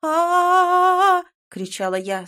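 high, loud, drawn-out scream. A narrator's reading. Startled heroine screaming at a voice in her ear. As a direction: shriek in fright. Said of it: "заорав".

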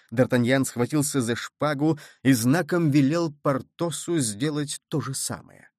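ordinary delivery, nothing marked

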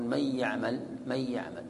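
"من يعمل" with the nun merged into the ya but its nasal sound kept; "من يعمل" with a nasalized merge of nun into ya; partial assimilation with nasalization. Shown as a demonstration. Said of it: "إدغام ناقص". ("من يعمل" بإدغام ناقص مع الغنة)

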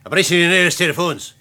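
hoch und laut gebellt; warnend, scharf und hoch; scharfe Warnung. Acted. Drohung mit Pistole, Befehl. (scharfe, laute Warnung an den Professor)

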